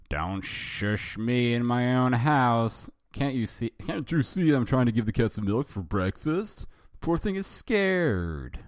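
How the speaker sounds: high, slow indignant alien; alien's indignant voice. Acted. Alf protesting to Willie about the cat, high and indignant.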